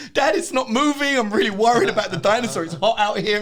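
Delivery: put-on very high, loud worried child; little kid voice. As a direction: squeak it like a scared small boy. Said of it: "He's like".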